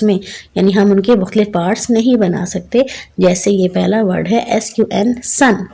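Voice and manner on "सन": teacher demonstrates "सन" in one unbroken sound; one syllable. Shown as a demonstration. Teacher showing children a one-part word, "सन" said unbroken. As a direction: say "सन" as a single beat, without splitting it. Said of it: "एक ही आवाज़ आ रही है".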